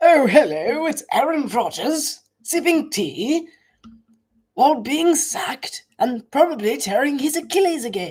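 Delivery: put-on British commentator accent. Doing mock commentary of the Vikings–Jets game in London: British accent. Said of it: "I could do the entire commentary in a British accent".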